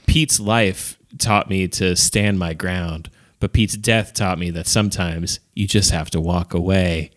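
deliberate voiceover with long phrasing; bad movie voiceover. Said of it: "this really bad, uh, voiceover".

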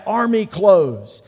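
loud, slow shouted reply; team's yell back. Retold or imitated. Players shouting their answer to the coach, loud and slow. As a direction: bellow it back slowly. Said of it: "they yell back".

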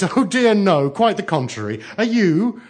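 high, loud, breezy cheer; chirpy, emphatic village girl; most cheerful. A narrator's reading. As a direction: brightly brush off the worry, pitched high. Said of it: "said in a most cheerful voice".

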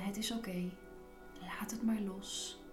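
soothing. Pretend. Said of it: "Alsof je je kaken wil vertellen".

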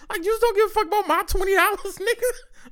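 high, fast, laughing through the words. Real, not acted. Retelling the phone store pitch, laughing high and fast. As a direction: crack up mid-sentence.

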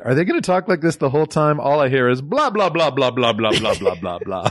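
droning blah blah trailing off; mock the dull dialogue. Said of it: "You said".

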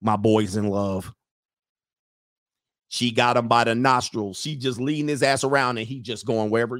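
a father noticing his son in love; low resigned parent. Retold or imitated. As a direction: sigh it like a let-down father. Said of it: "you're like".

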